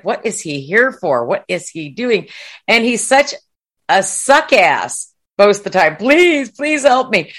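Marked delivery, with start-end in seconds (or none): 6.0-7.3 high-pitched mock plea; mock begging for mercy. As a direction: imitate a coward pleading for help. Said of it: "he's asking for mercy".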